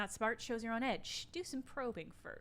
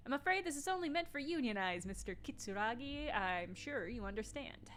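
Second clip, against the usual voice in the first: 1 Everett impression. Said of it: "I'm not doing a good Everett impression".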